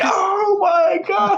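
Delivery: very high, slow shrieking oh my god; high slow crying shout; mock horrified cry. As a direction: wail it in hammed-up shock. Own mock horrified reaction.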